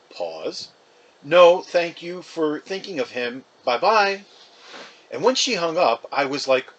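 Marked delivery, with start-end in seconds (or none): 1.2-4.2 higher, warm goodbye; sweet sign-off on the phone; mother thanking the caller before hanging up; Mom ending the call. Acted.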